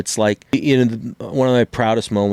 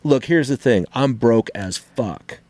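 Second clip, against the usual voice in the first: higher, half-joking begging; mock pleading debtor; 5 semitones higher than usual. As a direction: play a broke guy pleading with the bill collector, hammed up. Acting out a plea to bill collector.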